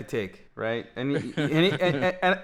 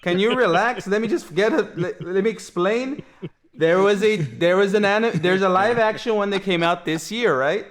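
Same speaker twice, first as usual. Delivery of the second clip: irritated; 4 semitones higher, 3 dB louder than usual. Real, not acted. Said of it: "Roid rage".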